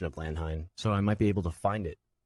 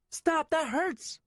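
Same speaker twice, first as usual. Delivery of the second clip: put-on high, slow boy's voice, hurting; pained plea; much slower than usual. Nico being kicked, high pained plea. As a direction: plead through the pain. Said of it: "I pleaded".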